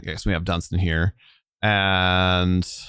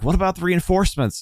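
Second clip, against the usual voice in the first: quick, raised, demanding question; sharp demanding question; 11 semitones higher, faster than usual. Acted. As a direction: press him for an answer fast.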